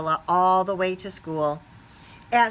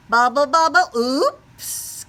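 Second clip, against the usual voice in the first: caught out; 6 semitones higher, 6 dB louder, slower than usual. Acted. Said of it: "cried Froggy".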